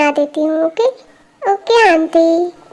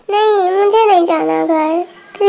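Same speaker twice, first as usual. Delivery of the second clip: slow, pouting no; sulky refusal; slower than usual. Acted. Stubborn girl slowly refuses Jungkook and his mom, pouting. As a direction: drag it out like a stubborn sulking child.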